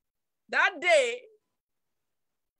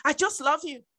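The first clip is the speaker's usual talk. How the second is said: tender prayer; 3 semitones lower than usual. Retold or imitated.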